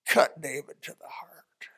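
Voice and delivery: breathy, slow whisper. Acted. Preacher hushing the congregation at the climax. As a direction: let it land in a hush.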